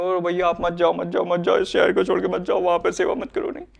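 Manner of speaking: mock crying, one plea running into the next; imitated tearful pleading. Preacher mimics townspeople begging him to stay, mock tearful. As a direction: plead like weeping friends, only half acted. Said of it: "कई लोग रोने लगे".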